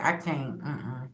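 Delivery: quietly backing away; hushed no-way; soft refusal. Retold or imitated. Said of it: "you like".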